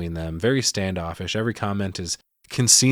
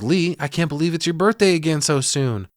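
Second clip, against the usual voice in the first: mocking mom; 6 semitones higher, 3 dB louder than usual. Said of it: "Ruth goes".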